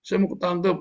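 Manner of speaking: high, loud cry of fake alarm; hammed-up yelling at being caught; mock panicked yell. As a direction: act out a panicky shout for help. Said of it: "Saya pernah nggak teriak".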